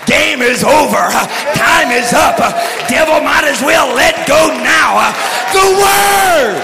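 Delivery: rhythmic preaching with "uh" breaths; preaching cadence. Acted. Preacher retelling Robinette's teaching, full-force preaching. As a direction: keep the revival drive going through the quote.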